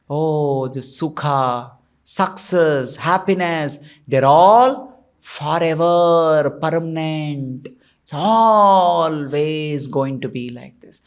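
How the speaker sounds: low, slow, smugly content musing; dreamily sure nothing will change, drawn out; complacent belief. Retold or imitated. Preacher voicing a worldly person sure happiness lasts, slow and low.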